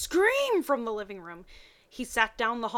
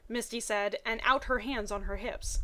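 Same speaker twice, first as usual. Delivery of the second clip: ordinary delivery, nothing marked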